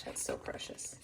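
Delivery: hushed, charmed whisper; soft adoring whisper; whispered delight. Real, not acted. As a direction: whisper it as if it's too sweet. Cooing over cute drawings.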